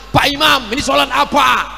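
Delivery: imitated congregant hollering a question; direct calling-out. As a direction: call out bluntly from the back rows. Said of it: "nanya langsung".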